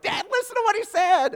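high, loud mocking call to Dad; giggling daughters. Daughters in the truck calling out to Dad, high and loud. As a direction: tease Dad like the girls in the back seat. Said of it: "the girls are back there like".

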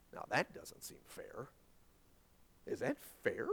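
whispered, soft doubt; hushed. Real, not acted. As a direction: drop to a whisper. Preacher hushing on unfairness.

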